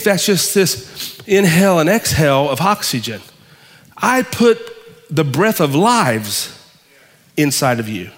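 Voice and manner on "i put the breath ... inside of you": drawn out, dropping low on inside of you; slow and weighty, sinking to a hush; slow emphatic. Acted. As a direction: stretch each word of the breath of lives. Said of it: "slow drawn-out emphasis".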